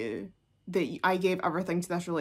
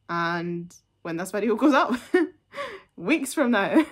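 laughing; 4 dB louder than usual. Real, not acted. Laughs at own joke.

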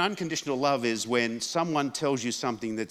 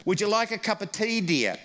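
put-on sweet old mum; 9 semitones higher than usual. Mum offering tea.

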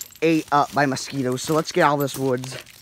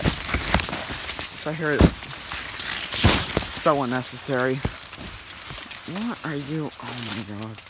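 laughing through words; 3 semitones lower, 4 dB quieter, much slower than usual. Real, not acted. Laughing while talking.

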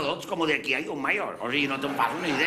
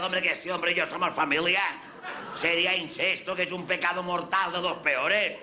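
indignant protest; 3 semitones higher than usual. Retold or imitated. To the hotel man over the honeymoon bed, indignant higher protest. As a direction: protest it in disbelief, half laughing.

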